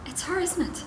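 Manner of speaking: high but restrained accusing question; insistent accusation. Acted. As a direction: keep HER high without raising the volume. Repeats accusation, less loudly.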